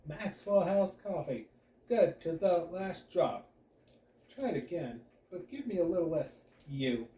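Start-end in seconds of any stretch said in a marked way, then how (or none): 0.1-3.5 another take. Acted. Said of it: "This goes on for about ten minutes".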